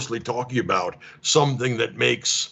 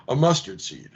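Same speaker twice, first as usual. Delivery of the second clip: laughing repeat. Pretend.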